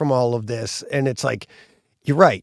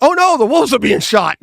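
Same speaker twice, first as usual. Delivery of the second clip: much higher, louder hammed-up alarm; retelling a movie moment in mock horror; 10 semitones higher, 5 dB louder than usual. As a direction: play up the shock for laughs.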